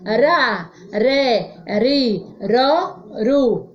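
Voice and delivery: "Ra, ré, ri, ró, ru" with a tongue-tap R; weak R. Shown as a demonstration. Teacher repeats for pupils to read along, tapped R in "Ra, ré, ri, ró, ru". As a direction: sound out syllables separately, tapping each R once. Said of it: "Som fraco".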